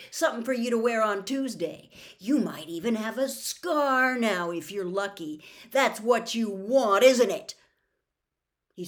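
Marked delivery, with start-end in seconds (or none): 0.1-7.5 loud, rising furious taunt; building to a furious yell; angry taunting. Acted. Harry taunts Ron in fury.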